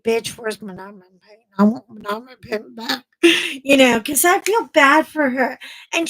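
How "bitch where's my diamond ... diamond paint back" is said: lightly played Texas redneck; Texas redneck accent. Vlogger's inner redneck demanding her painting back, Texas accent. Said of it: "the redneck in me, the Texas in me is like".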